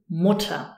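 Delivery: "Mutter" stressed on the U, final ER unemphasized. Shown as a demonstration. Teacher showing where the emphasis falls, stressed first syllable. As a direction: say "Mutter" as MU-ta, no R heard. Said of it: "the emphasis is on the U".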